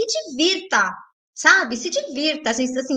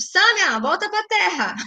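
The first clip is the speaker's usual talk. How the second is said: calling back; 4 semitones higher than usual. Acted. Calls herself back to earth.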